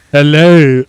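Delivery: put-on loud French-accented greeting; attempted French accent. Streamer testing whether the character is French, loud French accent. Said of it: "He sounds more French".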